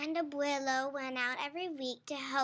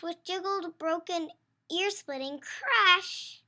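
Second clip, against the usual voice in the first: louder and higher as the chase runs; excited chase narration; 3 semitones higher, 9 dB louder than usual. A narrator's reading. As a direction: build the frantic chase. Reads the chase scene building.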